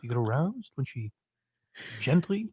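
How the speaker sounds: sleazy therapist getting intimate. Pretend. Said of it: "the most disgusting therapist voice".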